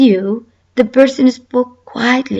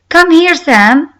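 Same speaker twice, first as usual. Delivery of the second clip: mild shout; 5 semitones higher, 4 dB louder than usual. Acted. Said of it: "I think it's shout".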